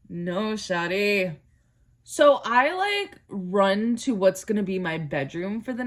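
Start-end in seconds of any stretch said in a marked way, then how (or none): 0.1-1.4 a deadpan, resigned "No, shawty". Real, not acted. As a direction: let "No, shawty" sink, slow and resigned. Repeating it.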